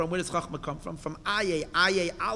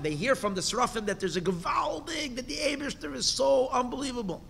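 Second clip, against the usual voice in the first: rising excitement; 7 semitones higher than usual. Acted. Teacher acting out angels' excitement.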